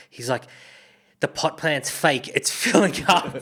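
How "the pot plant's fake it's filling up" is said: half-laughing imitation of a panicked mate; mock panic. Mate whispering about the overflowing pot plant, panicky. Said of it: "you can hear the panic in his voice".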